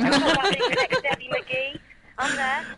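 excited. Pretend. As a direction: proudly announce it. Jokingly claims assistant role.

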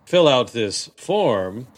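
slow, drawn-out cabin announcement; a lightly mocked flight attendant. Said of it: "lady who's been a flight attendant ... goes".

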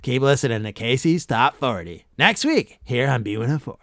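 lightly voiced DJ closing; radio sign-off. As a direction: wrap the show like a countdown host. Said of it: "He'd usually add".

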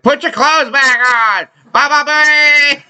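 high, slow heckler yelling out; heckling shout. Retold or imitated. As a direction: jeer from the crowd, sing-song bye. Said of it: "people go in the audience like".

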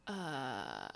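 low, deflated uh; stall, caught off guard; taken aback. Retold or imitated. Caught off guard by the clinic lady's deadline. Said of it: "And I'm like".

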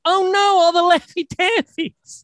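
put-on high, drawn-out childish wail; mock distressed kid. Retelling a kid who lost out on candy, hammed-up wailing. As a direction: imitate a spoiled kid lamenting lost candy. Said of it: "It was just some kid who was like".

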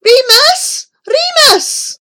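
loud, high call across a room. A narrator's reading. Old man calling for his grandson, loud high call. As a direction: call the name out urgently. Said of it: "the old man called out".

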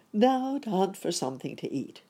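eager cry. A narrator's reading. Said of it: "cried Uncle Wiggily".

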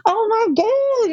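high, slow, overwhelmed sigh; emotional. Retold or imitated. Moved after helping the mother, high slow overwhelmed cry. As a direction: let the feeling overwhelm you.

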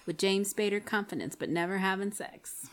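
hushed, breathy chorus line; whispering. Acted. Whispered second chorus take.

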